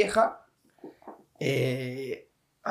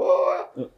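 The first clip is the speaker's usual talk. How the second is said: mock sob on a voiceless "oh"; imitated crying wail. Storyteller mimicking the girl crying at the shopfront, mock sob. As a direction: imitate someone crying, all air, no voice. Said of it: "llorando, tipo".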